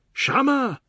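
high, loud bawl; bawled name. Acted. Husband bawling for his wife, loud bawl. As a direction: bawl her name across the house. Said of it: "he bawled".

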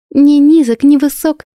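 high, loud teasing giggle; gleeful singsong jab; giggling tease. A narrator's reading. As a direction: rhyme it with a playful giggle. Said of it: "беззлобно хихикнула девушка".

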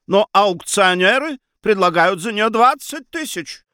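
high, emphatic objection; heated argument. Acted. Mother arguing for the painting's price, heated. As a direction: argue back with pitch held high. Baroness argues painting's value.

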